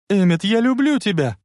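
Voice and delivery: high, ardent call; shouted declaration. A narrator's reading. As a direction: call out love over a distance. Woman shouts love from speeding train. (пылкий крик издалека)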